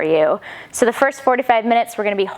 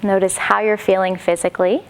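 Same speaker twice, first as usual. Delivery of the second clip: calm, unhurried instruction with long pauses; guided yoga meditation; 4 dB quieter than usual. Acted. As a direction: gently guide them inward, leaving space between phrases. Leads settling into meditation.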